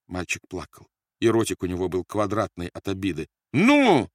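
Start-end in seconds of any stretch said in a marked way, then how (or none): 3.5-4.1 very high, drawn-out yell; shouting. A narrator's reading. Officer keeps pressing over a crying baby, shouting. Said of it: "продолжал кричать Рольф".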